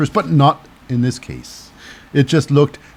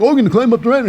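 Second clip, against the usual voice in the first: mock wrestler voice; 8 semitones higher, much faster than usual. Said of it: "Everybody's like".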